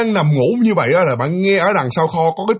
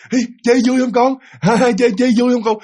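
put-on bright, higher, laughing question to a child; cheerful mother; 6 semitones higher than usual. Shown as a demonstration. A mother happily asking her child if it's fun. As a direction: sound like a happy mum asking her kid. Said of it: "nó phải là vui vẻ lên, nó tươi sáng lên".

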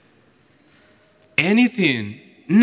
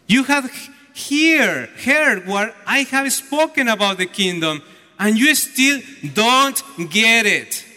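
acted exasperation, words driven home; irritated; 2 semitones higher than usual. Lord to disciples who still don't get it, irritated. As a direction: imitate an irritated teacher reproaching his followers. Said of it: "he became so irritated".

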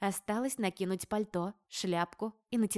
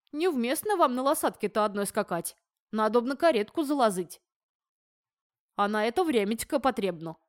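put-on lisping old groom, louder; slushy lisp, eager to please; 2 semitones higher, 5 dB louder than usual. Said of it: "шепеляво говорил мне седой конюх".

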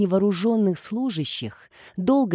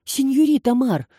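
breathless blurt; 5 semitones higher than usual. A narrator's reading. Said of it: "задыхаясь, выпалила Баси".

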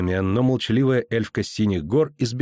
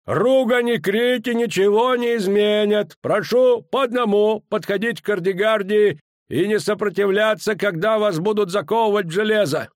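stern commander; 11 semitones higher than usual. A narrator's reading. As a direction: order them coldly. Danza giving orders. (суровый приказ)

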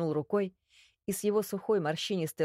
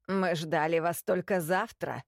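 displeased croak. Acted. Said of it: "недовольно каркнул старик".

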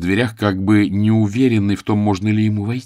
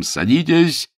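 sharp high call; voiced crowd shout; 8 semitones higher, 3 dB louder, slower than usual. A narrator's reading. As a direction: yell it at the crowd.

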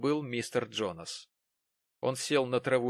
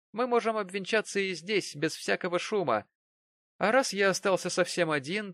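put-on higher, pressing young man; pushy Jonas; 8 semitones higher, 4 dB louder than usual. A narrator's reading. Jonas presses Mary to set the wedding day. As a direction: nag her for a wedding date.

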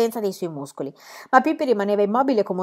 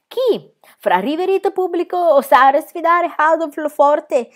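higher, louder, slow ringmaster in broken Italian; foreign circus director; 8 semitones higher, 7 dB louder than usual. A narrator's reading. Circus director presents Adolf to the crowd, grand and foreign. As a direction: sell the strongman in a grand foreign showman voice.

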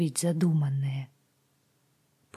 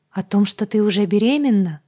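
snorted; 3 semitones higher, 6 dB louder than usual. Acted. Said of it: "фыркнула я".

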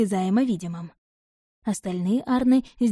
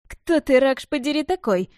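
higher, louder indignant cry; indignant outburst; 6 semitones higher, 4 dB louder than usual. A narrator's reading. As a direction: let the outrage burst out. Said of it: "возмутился Эйзер".

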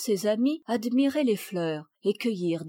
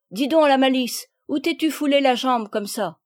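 higher, louder accusing question; mildly scolding mother; 5 semitones higher, 7 dB louder than usual. A narrator's reading. Mother questions injured Palmyre, mildly scolding. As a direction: confront her with a touch of reproach. Mother confronts guilty daughter.

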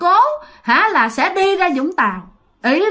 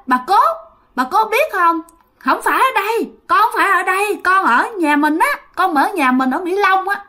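put-on higher, guileless child voice; naive child voice; 6 semitones higher than usual. Ghost child telling great-grandma where he lives, childlike. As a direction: talk like a small kid explaining where home is. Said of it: "giọng của chú ngô nghê như một đứa con nít".

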